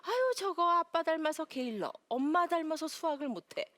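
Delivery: nagging mom. Retold or imitated. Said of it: "막 화를 내는 거죠".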